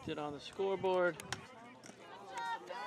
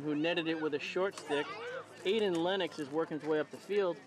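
sucking a lollipop. Real, not acted. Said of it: "impossible to enjoy a lollipop and do commentary".

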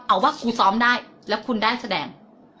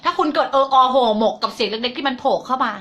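usual speaking voice

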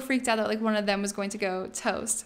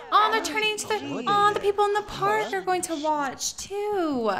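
high-pitched excited coo; touched and thrilled, voice way up high; delighted gushing; 10 semitones higher than usual. Real, not acted. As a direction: squeal with delight at a sweet surprise. Delighted that park guests will watch.

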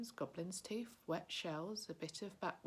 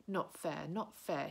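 louder, indignant creature complaint; hissed protest; 5 dB louder, slower than usual. Acted. Gollum protests Bilbo's riddle, mild indignant hiss. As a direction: spit out the unfairness. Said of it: "he hissed".

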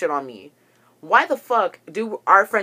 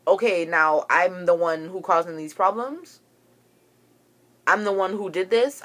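incredulous retort. Retold or imitated. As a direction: throw it back as a disbelieving question. Acting out an indignant retort.

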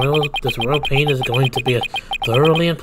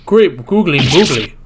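astonished exclamation; 5 dB louder, slower than usual. Acted. Judge exclaims at the bomb.

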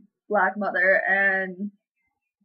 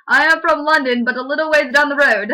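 louder, chirpy fake British small talk; mock British accent; 4 semitones higher, 5 dB louder than usual. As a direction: lay the posh Brit on thick. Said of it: "How's that British?".

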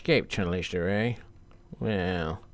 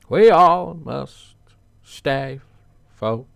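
failed character voice; 2 semitones higher, 5 dB louder than usual. Retold or imitated. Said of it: "I can't do the voice".

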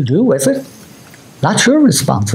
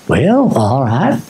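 low, slow drawn-out "well, all right"; a hint of an easygoing old pastor; pastor's slow reply; 4 semitones lower, slower than usual. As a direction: let it out slow and low, unhurried. Pastor answers kneeling young man.

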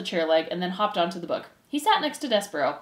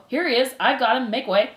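loud, raised announcement; calling out; 4 semitones higher, 5 dB louder than usual. Acted. Furlow brings his brother in, calling out. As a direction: announce your catch to the crowd.

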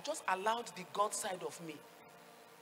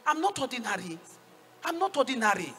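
forceful declaration; 2 semitones higher, 7 dB louder than usual. Real, not acted. Preacher declaring with rising force.

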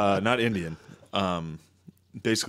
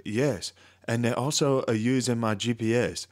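mock Asian accent. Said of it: "it's classic Asian".

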